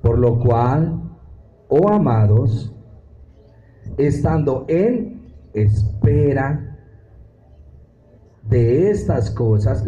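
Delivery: very slow, each phrase drawn out for the class; deliberate pedagogical reading, stretched out; slow teaching read. Shown as a demonstration. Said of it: "Vamos a leerlo muy pedagógicamente".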